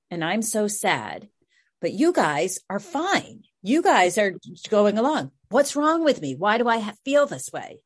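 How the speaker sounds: voicing the upset daughter, mildly pleading; retold distress. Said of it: "and just so distressed".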